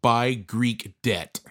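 slow, deliberate deadpan; deadpan punchline. Retold or imitated. Will telling the coach his stock tip, slow and deadpan. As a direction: drag out each word like a serious verdict.

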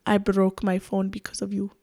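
soft imitated Spanish accent; mock Spanish-accented accusation. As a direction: put on a quiet, intense Spanish accent. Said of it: "Spanish accent".

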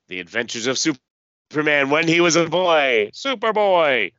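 grand announcer build to Superboy. Acted. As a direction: announce the title like a trailer. Announcing the comic series title.

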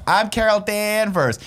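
slow, drawn-out self-important intro; mock her as she walks away, slowly; annoying Carol Danvers. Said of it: "this is how Carol Danvers talks".

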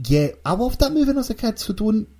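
high, fast outraged defence; indignant squeal; mock indignant protest. Real, not acted.

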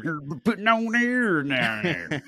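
high, drawn-out mock cartoon cry; South Park character. Host echoing co-host's cartoon bit, South Park character voice. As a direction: join in with a slow, high silly whine. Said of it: "at South Park".

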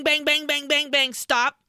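loud, high pounding repetition; imitated banging. Host imitates killer pounding the door, loud rapid banging. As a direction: hammer out each bang, then stop. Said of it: "it's similar 'cause it's bang".

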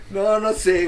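risa aguda y fuerte; carcajada. Real, not acted. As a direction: se desata riendo. Ríe fuerte de la ocurrencia. (carcajada aguda)

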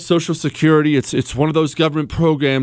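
mild mock candidate hedging; careful politician answer. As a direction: give the safe, hesitant campaign answer. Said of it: "that's what you should say".

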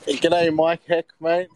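loud Australian g'day; loud greeting. Real, not acted. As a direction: greet the host with a big hello. Aussie caller greets loudly.

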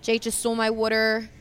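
light Philly accent on the vowels; a hint of Philadelphia in "water". Shown as a demonstration. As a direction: talk like you're from Philly. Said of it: "Philly. I can talk about water".

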